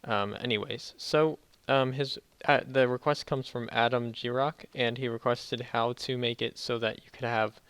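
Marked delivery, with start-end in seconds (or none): 0.0-3.3 talking after wisdom teeth removal; swollen mouth. Real, not acted. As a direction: sore swollen jaw speech. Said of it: "apologize in advance for my audio and whatnot because, uh, I got my wisdom teeth removed".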